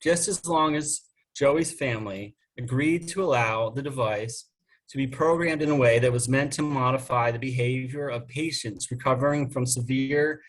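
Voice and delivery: measured read-aloud of a story; story narration. A narrator's reading. Reads own story aloud.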